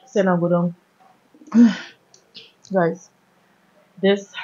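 words with food in mouth; muffled chewing between words; talking while chewing. Real, not acted. Seen 3: mouth seems to hold food between phrases, hands unwrapping food.

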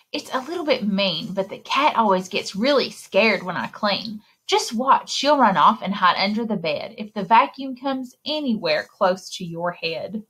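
put-on lively read-aloud for little kids; story reading. A narrator's reading. Librarian reading a picture book to children. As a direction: read the rhymes like story time.

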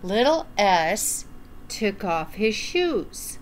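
gentle storytime narration; reading to children. Acted. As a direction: read it like storytime for little ones. Reading a picture book aloud.

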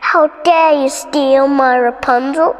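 loud furious witch cry; angry witch. Acted. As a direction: catch the thief, loudly furious. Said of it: "the witch cried".

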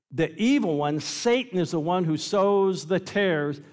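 emphatic preaching, stretching BURN out long. Acted. Preacher voices Jesus explaining the parable, very emphatic. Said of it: "He's very emphatic, very emphatic".

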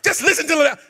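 repeating the mentor's line through laughter; laughing. Retold or imitated. Preacher repeating his mentor's advice, laughing. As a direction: laugh it out while quoting him.

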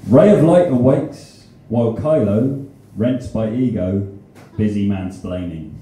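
measured haiku reading, stepping down in pitch; haiku recital. Acted. Poet reads haiku film review to audience, measured recital. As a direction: recite in short phrases with pauses, falling to the end.

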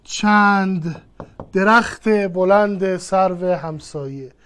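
slow, deliberate example read; slowly pronouncing درخت بلند سرو همسایه. Shown as a demonstration. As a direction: set each word down slowly for students. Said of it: "وابستهٔ پیشین اضافه کن".

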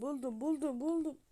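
voiced "buldum, buldum" after a whisper, rising; excited. Real, not acted. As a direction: call out "buldum" in growing excitement. Same words voiced louder, rising.

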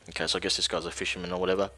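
talking through hiccups; hiccuping between words. Real, not acted. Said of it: "I've got the hiccups real bad".

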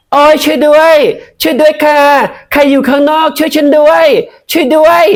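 high, loud desperate cries; screaming for help. Acted. Pu screams for help so police outside hear, high and loud. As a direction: yell for anyone outside to hear.

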